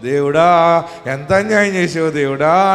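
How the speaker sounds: slow, drawn-out mock lament; imitating a mother-in-law's theatrical crying, slow; mock wailing. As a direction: ham up a widow's wail. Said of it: "అని ఏడుస్తుంటే".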